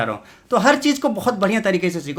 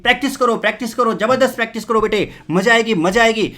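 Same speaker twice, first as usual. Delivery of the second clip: cheering encouragement; 4 semitones higher, 5 dB louder than usual. Acted. Teacher cheering students to practise.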